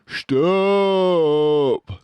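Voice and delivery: cry out. A narrator's reading. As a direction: cut him off, pained. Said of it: "cried Badger".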